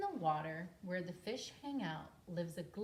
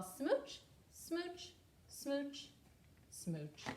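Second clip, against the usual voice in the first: playful smooches; 5 semitones higher, 5 dB louder, much slower than usual. Acted. Happy fish kissing.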